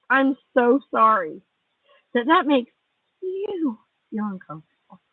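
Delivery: a tired, scornful sorry that trails off; sarcastic apology. Real, not acted. Repeated fake apology.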